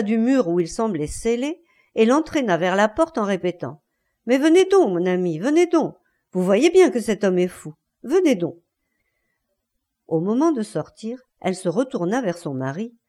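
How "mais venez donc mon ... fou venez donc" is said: insistent, exasperated urging; urgent pleading. Acted. Wife drags lover to the door, urging him.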